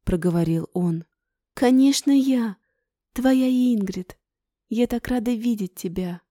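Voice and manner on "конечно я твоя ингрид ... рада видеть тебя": excited. Acted. Joyful reunion reply.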